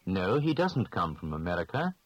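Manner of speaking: ordinary talk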